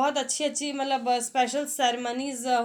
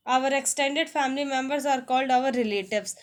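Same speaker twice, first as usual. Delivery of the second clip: slow, careful English read-aloud; slow textbook reading; much slower than usual. Shown as a demonstration. Teacher reading the family lesson to students, slow and deliberate. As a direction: spell it out slowly for learners.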